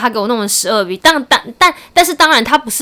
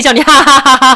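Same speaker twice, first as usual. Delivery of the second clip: mock laugh; 6 dB louder than usual.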